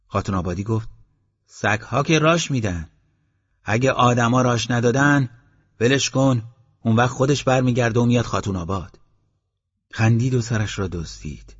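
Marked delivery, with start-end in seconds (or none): 1.5-9.0 a hint of an amused villager explaining, higher; chatty villager, lightly played; lightly voiced villager. Villager gives advice.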